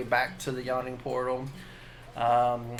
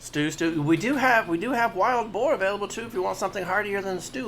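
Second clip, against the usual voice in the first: barmaid voice; 6 semitones higher than usual. Acted. Barmaid offers boar.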